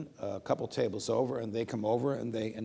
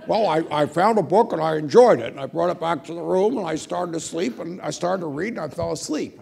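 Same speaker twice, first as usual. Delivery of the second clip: higher, louder confession; sheepish Scalia; 6 semitones higher, 8 dB louder than usual. Retold or imitated. Scalia confessing his night library visit, higher and louder. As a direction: own up with a grin.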